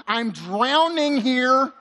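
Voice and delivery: slow, drawn-out plea; raw emotion. Acted. Preacher voices the psalmist's honest cry, slow and raw. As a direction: stretch out the admission of drowning. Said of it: "begins with raw emotion".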